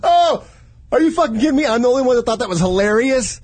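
high, loud disbelieving laugh-talk; incredulous shouting. Real, not acted.

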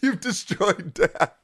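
slow, breathless with laughter; wheezing through laughter; laughing. Real, not acted. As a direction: barely get it out laughing. Friend dying of laughter.

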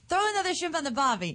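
beginner's muddled Australian accent; badly faked Australian starter phrase; shaky-footed attempt at an Australian accent. Shown as a demonstration. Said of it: "You're the Lower East Side Australian".

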